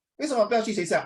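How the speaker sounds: nagging parent. Acted. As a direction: question a child like a parent. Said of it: "imagine you talk to mommy".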